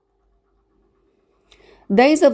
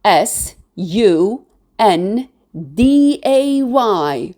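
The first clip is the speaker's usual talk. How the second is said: S U N D A Y, slowly, letter by letter; S, U, N, D, A, Y as separate letter names; spelled letter by letter; 2 semitones higher, slower than usual. Shown as a demonstration. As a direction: spell out S U N D A Y with gaps between letters. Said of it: "We write Sunday as".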